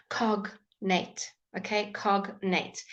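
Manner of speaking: "cognate" with a clear hard G between the syllables; cognate with G sounded. Shown as a demonstration. Teacher models the exception for the class, G sounded in "cognate". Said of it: "you would say the G".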